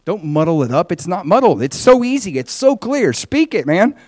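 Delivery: exasperated rebuke. Acted. Jesus as judge corrects the preacher, exasperated. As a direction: pitch climbing in exasperated insistence.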